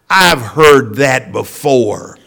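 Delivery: slow, laughing through the words; amused wife. Retold or imitated. Wife teasing her husband about the sermon, laughing. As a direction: tease him with a chuckle. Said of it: "with a great big smile".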